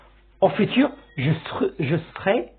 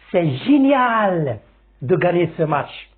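excited. Shown as a demonstration. Teacher demonstrating a joyful expression to students, delighted. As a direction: sell the joy of winning. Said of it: "Je peux dire".

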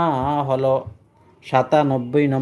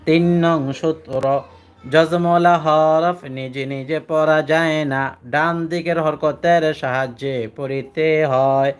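slow, measured recitation of the rule; recited rule; slower than usual. Shown as a demonstration. Teacher to students, reciting the rule slowly to memorize. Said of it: "আমার সাথে বলেন".

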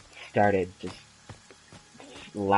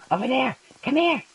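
calling out; 12 semitones higher, 4 dB louder than usual. Pretend. Calling to a character in game.

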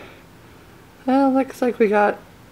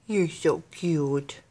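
low, slow, soft adoration; soft cooing; 5 semitones lower, 6 dB quieter, much slower than usual. Real, not acted. Owner admires dog with new toy, soft cooing. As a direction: murmur fondly to your pet, drawn out.

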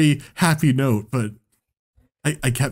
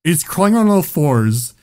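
ordinary talk, nothing marked

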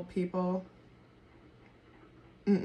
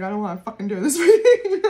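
loud, laughing through a mock whine; imitating her past reluctance, cracking up; laughing mock complaint; 11 dB louder than usual. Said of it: "I was like".

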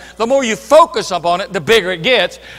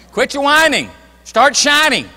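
higher and louder; rousing punchline; 4 semitones higher, 4 dB louder than usual. Real, not acted. Preacher rallying the church, louder and higher. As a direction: throw it out as a catchy rally.

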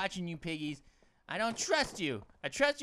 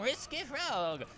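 put-on slow, playful French accent; drawn-out mock-French name; 5 semitones higher, slower than usual. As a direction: stretch it out as if French. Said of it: "I went to a French accent".

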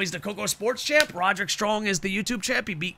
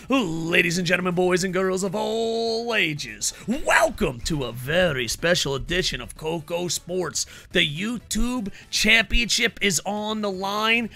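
ring announcer. Acted. Streamer welcomes all to Coco Sports, ring announcer style. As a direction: stretch the words like a wrestling announcer.

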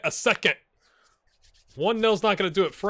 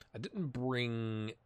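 slow soft whisper; 5 semitones lower, 9 dB quieter, much slower than usual. Shown as a demonstration. Retrying his sentence to viewers, slow hushed whisper. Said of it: "repeats the phrase whispered".

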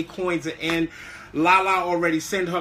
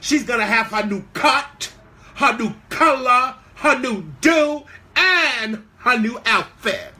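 rising higher and louder with each new item; hyped-up build; 4 semitones higher, 4 dB louder than usual. Acted. Listing her rival's new look to live viewers, hyped up. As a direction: pump up every item on the list.

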